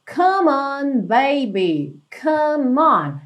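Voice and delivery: "come on" run together, the M joined to "on"; linked words. Shown as a demonstration. Teacher modelling song lyrics, "come on" linked into one word. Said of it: "essas duas palavras são ligadinhas".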